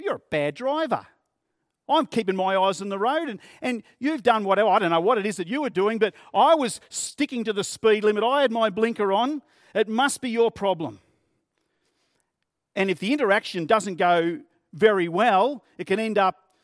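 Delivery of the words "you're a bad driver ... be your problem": raised, quick accusing voice; mock driver argument. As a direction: lay into the other driver, heated. Criticising the other driver.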